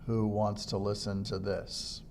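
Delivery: monotone. Shown as a demonstration. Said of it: "You do not want to be monotone".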